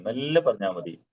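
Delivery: slow, with മെല്ലെ drawn out. Shown as a demonstration. Teacher telling Edwin to take his time, slowly. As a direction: stretch മെല്ലെ to show an easy pace. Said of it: "വളരെ slow ആയിട്ട്".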